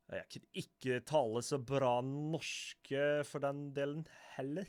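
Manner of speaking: slow, sing-song Norwegian put on by a Swede; hammed-up Norwegian lilt, stretched slowly; attempted Norwegian accent. Shown as a demonstration. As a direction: have a halting go at Norwegian, drawn out. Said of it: "try to attempt some Norwegian".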